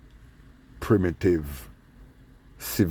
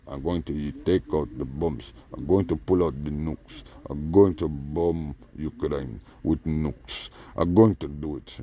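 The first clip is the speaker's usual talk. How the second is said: Putin; 4 semitones lower, 3 dB quieter than usual. Acted. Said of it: "Putin still talking about".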